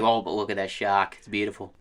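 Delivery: light mock Aussie surfer voice; Australian accent. Bitten surfer admires the shark, light mock Australian accent. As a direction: imitate an unbothered Australian, lightly. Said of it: "super sick Australian video I saw".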